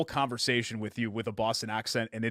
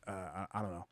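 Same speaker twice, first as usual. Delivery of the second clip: put-on puzzled kid; 5 semitones lower, 14 dB quieter than usual. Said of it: "He's like".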